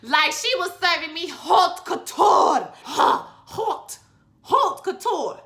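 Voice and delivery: excited. Real, not acted. Gushing over Electra's couture look.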